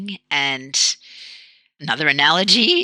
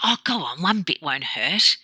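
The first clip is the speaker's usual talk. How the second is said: softer, coaxing mock persuasion; cajoling; 3 semitones higher, 4 dB quieter than usual. People pushing cake on a dieter, cajoling. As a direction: lightly imitate someone coaxing a dieter to give in. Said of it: "they try and cajole you into having it".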